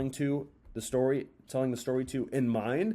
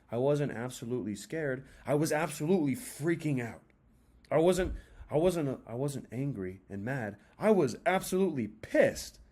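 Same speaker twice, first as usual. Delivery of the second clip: dramatic tonality. Shown as a demonstration. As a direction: swing the tone from hushed to fired-up. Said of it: "Get some tonality in there".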